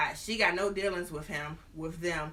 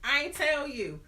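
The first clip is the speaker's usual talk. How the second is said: higher, offhand reveal; mock confession; 4 semitones higher, 3 dB louder than usual. Lady in red admitting she's married, lightly voiced. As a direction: toss it off casually. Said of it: "she go".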